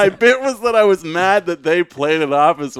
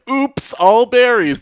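high, slow, sing-song "oops" voice; mock cereal ad voice; 11 semitones higher, 5 dB louder, slower than usual. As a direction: play it like a fake-innocent cereal mascot. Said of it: "And it's like".

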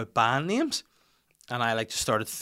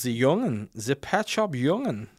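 put-on German accent; 2 semitones higher, slower than usual. Guessing German band name.

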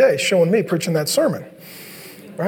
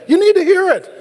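higher, louder, firm parent voice; 10 semitones higher, 4 dB louder than usual. Retold or imitated. Parent insisting the sulky kid listens, firm and raised. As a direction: lay down the law to the kid.

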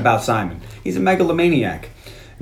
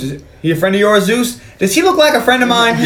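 acted indignation; 8 semitones higher than usual. Acts indignant exchange from movie.

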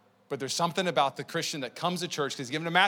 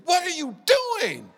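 put-on high, loud kid's yell; retold scream; 7 dB louder than usual. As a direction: scream at a teammate in disbelief. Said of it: "I literally scream at the kid".

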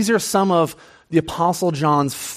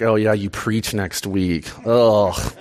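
wife's sass; 7 semitones lower, slower than usual. Retold or imitated. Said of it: "give me a little bit of sass".

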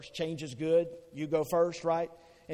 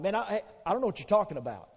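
stammering denial; 5 semitones higher, much faster than usual. Acted.

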